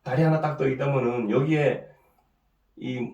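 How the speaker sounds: usual speaking voice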